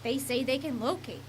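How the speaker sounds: measured TV reporter voice-over; scripted reporter read; news report narration. A narrator's reading. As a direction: narrate it as a local news package.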